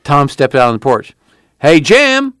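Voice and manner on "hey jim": high, carrying holler; long-distance shout, pitched way up; calling out. A narrator's reading. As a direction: call him from across a yard. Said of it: "he called".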